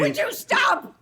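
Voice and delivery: snapping stop. Acted. Crying wife cuts husband off.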